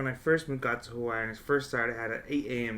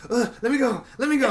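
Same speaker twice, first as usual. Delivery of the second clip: much higher and louder frantic plea; mock panic; 9 semitones higher, 6 dB louder, faster than usual. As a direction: struggle to break free in fright. Friend panicking in grass.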